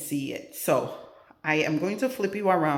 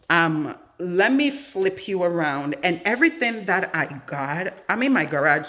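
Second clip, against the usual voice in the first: echoey garage room sound; talking in an echoing garage; 2 semitones higher than usual. Real, not acted. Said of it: "so sorry for the echoing".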